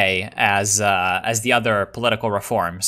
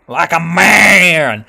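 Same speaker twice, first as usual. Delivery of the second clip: 1 mock challenge; 5 semitones higher, 8 dB louder, much slower than usual. Real, not acted. Challenging rival to fight.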